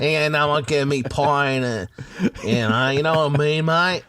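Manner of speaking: broad, rambling bogan Aussie voice; bogan Australian accent. Acted. Australian playing a bogan for his friend, broad Aussie. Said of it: "sound like a bogan".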